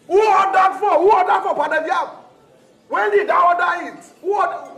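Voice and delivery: indignant scolding. Acted. Customer scolds waiter over order.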